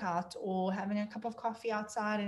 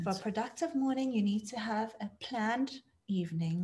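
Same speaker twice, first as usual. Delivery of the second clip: meditation voice. Pretend. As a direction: say it like a guided meditation. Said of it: "Love the voice there".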